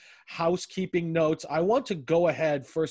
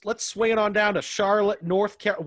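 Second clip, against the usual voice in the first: put-on Southern accent, pitched up; 4 semitones higher than usual. Host introducing the Charlotte co-host in a put-on Southern accent. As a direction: swing into a playful Southern twang. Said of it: "Why am I saying that in a Southern accent?".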